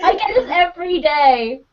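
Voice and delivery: high-pitched exasperated rant; mock outburst. Scot moaning to English friends, mock outburst. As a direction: blow up in playful, high exasperation.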